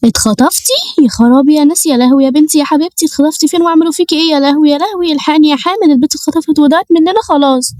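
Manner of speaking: high, wailing mother's alarm; hammed-up despairing wail; panicked mother. Mother hears daughter was kidnapped.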